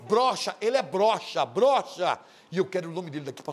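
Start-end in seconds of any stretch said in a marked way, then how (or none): 0.0-2.2 laughing taunt. Real, not acted.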